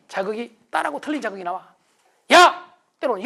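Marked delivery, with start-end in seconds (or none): 2.3-2.7 sharp yell at a son, high and loud; loud irritated call; angry shout. Retold or imitated. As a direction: bark his name out like a scolding father. Father snapping at son.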